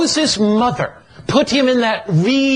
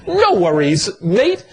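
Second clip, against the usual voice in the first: lightly imitated Australian brogue; reassuring Australian lilt, lifting at the end; Australian accent. Jesus reassuring Philip in the preacher's light Australian imitation. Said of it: "not in Australian brogue".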